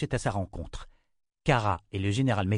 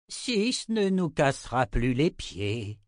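put-on old wizard announcing; 4 semitones higher, slower than usual. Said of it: "annonça le vieux sorcier".

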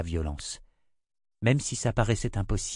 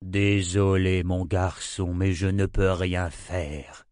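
slow, heavy apology; old man's slow regretful apology; sorrowful; slower than usual. Acted. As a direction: let him down slowly and kindly. Prophet refuses sadly.

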